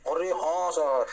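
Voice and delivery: slow, drawn-out student reply; student chorus. Acted. Teacher voices the class agreeing, slow student chorus. Acts the class answering him.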